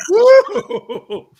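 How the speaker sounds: high, loud laughing whoop; excited whoop. Real, not acted. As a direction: let out a delighted whoop. Laughing at Martian voice remark.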